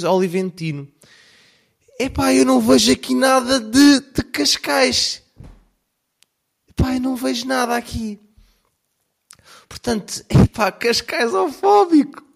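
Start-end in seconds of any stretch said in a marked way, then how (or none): 2.0-12.2 put-on high, loud, posh Cascais accent parody; hamming up a Cascais snob voice, much higher; mock Cascais accent. Mocking the Cascais accent to his viewers in a high snob voice. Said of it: "ninguém fala assim".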